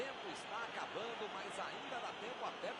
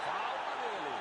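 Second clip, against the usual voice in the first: loud foul call; 7 dB louder than usual. Acted. Commentator calls a foul.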